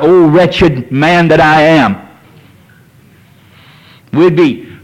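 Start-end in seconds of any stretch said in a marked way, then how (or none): 0.0-2.0 slow, drawn-out lament; crying out in repentance. Retold or imitated. Preacher voicing a repentant sinner, slow lament. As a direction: plead it slowly like a sinner's cry. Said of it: "we'd begin to cry out".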